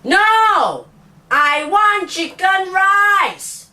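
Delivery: high, slow exaggerated Singlish whine; Singlish accent. Shown as a demonstration. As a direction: whine it like an annoyed Singaporean kid. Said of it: "It will sound something like this".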